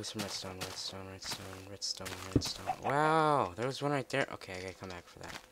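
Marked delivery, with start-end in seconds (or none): 2.8-4.3 high, loud burst of excitement; thrilled at the find; loud excited wow. Real, not acted.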